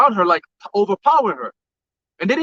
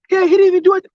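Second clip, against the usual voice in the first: high, loud mimicry of a protesting bystander; imitated protest; 10 semitones higher, 5 dB louder, faster than usual. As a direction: pitch it way up as her indignant objection. Retells woman protesting the arrest.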